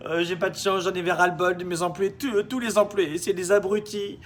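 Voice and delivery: mock the moaning rich boss; whiny boss.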